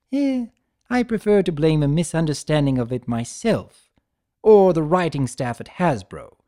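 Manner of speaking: playful trickster Discord. Acted. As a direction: tease him like a smug jester. Discord voiced in the story.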